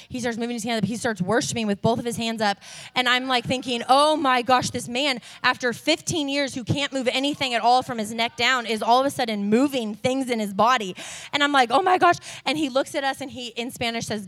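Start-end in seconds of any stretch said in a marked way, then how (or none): 3.9-10.9 a touch of excited disbelief, a bit louder; amazed thought. Retold or imitated. Amazed at healing, retold thought. 11.7-12.2 higher, louder gasp of amazement; amazed exclamation. Retold or imitated. Overwhelmed reaction to healing.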